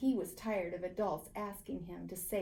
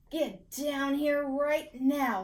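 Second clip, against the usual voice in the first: stern mom call; 4 semitones higher, 4 dB louder, slower than usual. A narrator's reading. Mother calls Paxton down.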